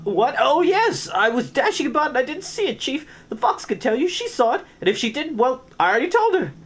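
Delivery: high, fast panicky stammer; flustered. Acted. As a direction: babble the lie in panic. Fangbird flustered lie.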